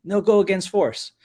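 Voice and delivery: a hint of the old Cantonese teacher's accent, slow. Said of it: "in his Cantonese accent".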